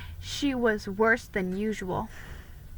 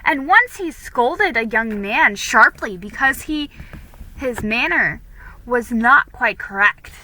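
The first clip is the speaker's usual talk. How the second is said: a hint of a gossiping girl, louder; gossiping girl prattling; 4 dB louder than usual. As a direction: gossip to unsettle Felicity. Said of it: "She prattled on".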